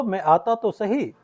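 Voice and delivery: slow phrase, "सही" closing it before the gap; gap after सही. Shown as a demonstration. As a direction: stop after "सही" with the sentence still unfinished. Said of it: "यहाँ पर थोड़ा gap आ जाता है". ("सही" पर थोड़ा ठहराव)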